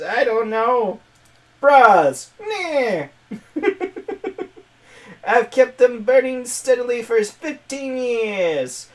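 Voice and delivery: high, loud cartoon villain voice; Skeletor. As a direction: keep the screechy skeleton villain going. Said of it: "I'm gonna give her Skeletor's voice".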